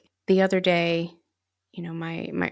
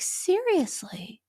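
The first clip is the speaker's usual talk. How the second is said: much higher, drawn out slowly; stunned disbelief; 11 semitones higher, much slower than usual. Retold or imitated. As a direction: stretch the word in shock. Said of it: "And they're like".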